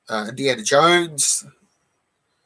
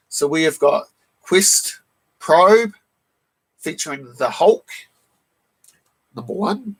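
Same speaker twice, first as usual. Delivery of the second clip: hoarse from a cold; rough, croaky cold voice. Real, not acted. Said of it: "Sorry about the croaky voice".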